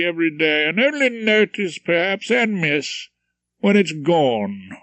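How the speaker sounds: a hint of a pompous chairman orating; lightly voiced speechmaking host. Featherstone's after-dinner speech.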